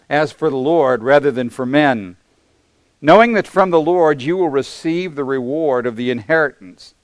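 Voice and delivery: preacher reading scripture from the pulpit. Acted. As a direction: read it out like holy writ to the congregation. Reads scripture passage aloud.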